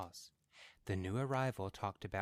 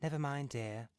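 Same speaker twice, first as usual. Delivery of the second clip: calm; 6 semitones higher than usual. A narrator's reading. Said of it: "said his wife calmly".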